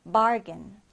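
"bargain" with the first syllable stressed. Shown as a demonstration. English teacher models the word for learners, "bargain" stressed on BAR. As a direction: lean on BAR in "bargain", let the end fall. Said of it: "첫 음절의 강세를 두고요".

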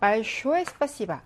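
'большое спасибо'를 아주 느리게 한 음절씩 늘여서; 학생들이 강세를 듣도록 단어를 길게 끌며 읽기; 천천히 또박또박. Shown as a demonstration. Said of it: "강세 유무를 살펴보도록 할게요". (강세를 보여 주려고 러시아어를 아주 느리게 읽는 선생님)

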